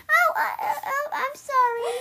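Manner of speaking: trying to recover from a laugh; laughing apology. Real, not acted. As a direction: apologise through real laughter. Breaks up laughing while apologising.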